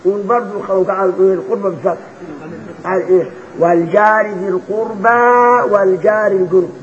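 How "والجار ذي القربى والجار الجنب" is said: slow recitation, الجار with open a. Shown as a demonstration. Sheikh recites the fatha reading for the class. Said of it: "بفتح الجار".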